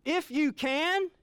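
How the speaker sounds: high, loud, slow exclamation; exclaiming. Acted. Preacher voices Jesus answering the doubting father, exclaiming. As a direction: make it ring with disbelief. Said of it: "do you see the exclamation point?".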